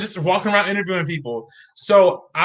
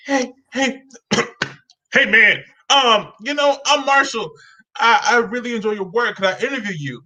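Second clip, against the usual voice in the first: put-on nervous teen voice; 5 semitones higher than usual. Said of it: "afraid to tell people his name because I think he's a little nervous".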